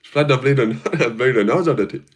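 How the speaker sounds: Irish accent attempt. Shown as a demonstration. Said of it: "Do Conor accent?".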